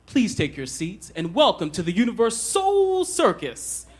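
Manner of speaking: lightly voiced circus ringmaster; a hint of a circus ringmaster welcoming the crowd; circus announcer. Shown as a demonstration. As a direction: announce it like a big-top emcee. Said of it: "announcer voices, like the ones at the circus".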